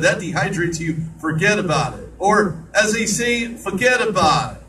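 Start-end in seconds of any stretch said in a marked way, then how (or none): 1.2-2.1 put-on East Coast accent. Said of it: "That's the worst East Coast accent". 3.5-4.6 a weak East Coast "forget about it"; a clumsy East Coast try at "forget about it"; joking bad East Coast accent. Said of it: "That's the worst East Coast accent I could probably come up with".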